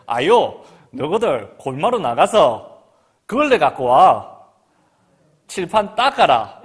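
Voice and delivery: loud Gyeongsang teacher giving orders; Gyeongsang dialect. Retold or imitated. Teacher sending pupils for a rag, loud Gyeongsang dialect. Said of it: "제가 경상도 말로 할 거예요".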